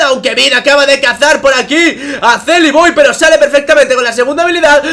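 fast, high, loud shouted fight call; excited play-by-play. Acted. Caster calling a teamfight to viewers, excited shouting. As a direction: ride the teamfight at full speed and volume.

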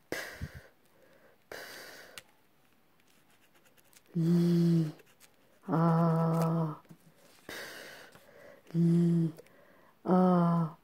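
p as an unvoiced puff, l and a held quietly; separate letter sounds. Shown as a demonstration. Teacher splits plat for pupils, quiet isolated sounds. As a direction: sound out p, l, a one at a time. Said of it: "je vois trois".

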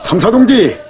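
urgent high call across the yard. Acted. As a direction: shout the title to get attention. Worker calling out on arrival.

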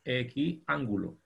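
Equiángulo said slowly with the weight on the á of ángulo; Equiángulo, stressing the á, slow. Shown as a demonstration. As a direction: lean on the á in Equiángulo, drawn out. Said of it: "Con acento en la A".

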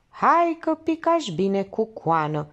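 mildly mocking, drawn out a little; a touch of sneering teasing; lightly sarcastic jibe. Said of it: "exclamă sarcastic farmacistul Popescu".

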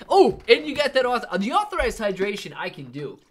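high, loud, lightly put-on Arnold; a quick, bad go at Arnold; Arnold impression. Answering a viewer's request, weak mock Arnold voice. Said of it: "The Arnold impression".

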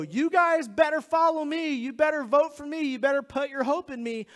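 campaigning politician. Acted. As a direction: pressure the crowd like a fearmongering candidate. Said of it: "look at liberals and go".

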